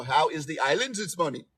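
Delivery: clumsy mock Caribbean island accent; terrible Antiguan accent. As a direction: greet the islands in a badly faked Antiguan accent. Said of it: "It was a terrible, terrible accent".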